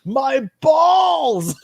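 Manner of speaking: high crying yelp of my balls; pained wail. Retold or imitated. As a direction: whimper it like a hurt man. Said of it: "all you hear him go is".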